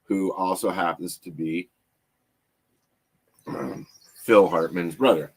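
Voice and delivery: speaking around a swollen tongue; thick-tongued from a bitten tongue. Real, not acted. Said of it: "My tongue is swollen 'cause I bit it".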